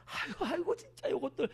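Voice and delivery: high, scoffing laugh through the words; mocking laugh. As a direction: laugh them off with contempt. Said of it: "비꼬면서, 막 웃어대면서".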